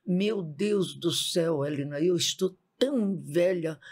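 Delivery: slow, drawn-out lament; retold lament. Cousin bemoaning her age to Helena, mildly lamenting. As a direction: lament it slowly, imitating the cousin. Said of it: "Ela se lamentando".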